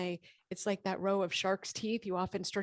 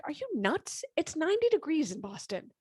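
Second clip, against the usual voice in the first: high, loud incredulous retort; family scoffing; 9 semitones higher, 5 dB louder than usual. Retold or imitated. Family refusing to close windows, mock incredulous shout. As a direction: scoff at her like she's crazy. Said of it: "My family's like".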